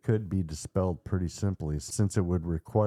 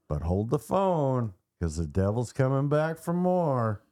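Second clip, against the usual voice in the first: dramatic hype; 7 semitones higher than usual. A narrator's reading. Hyping the devil's return.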